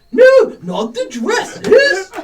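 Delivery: put-on very high, very loud, very slow swooping voice. The speaker offers to do the other player's voice and does it: impression of the listener's voice. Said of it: "I'll do your voice".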